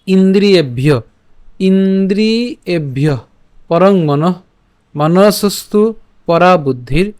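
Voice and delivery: measured, chanted reading of a Gita shloka; Sanskrit verse recitation. Shown as a demonstration. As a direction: recite each half-line with a pause, like a teacher. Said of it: "আমি আবার বলছি".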